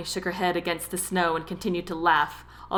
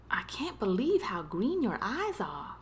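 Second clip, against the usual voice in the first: softer, hushed wonder; tender admiration; 6 dB quieter than usual. A narrator's reading. Tom admires Daphne's eyes, softly tender. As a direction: say it softly, caught by the moment. Tender moment between the two.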